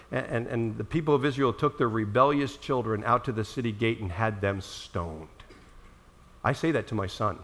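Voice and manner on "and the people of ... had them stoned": mock stern father. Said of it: "quote this to my son".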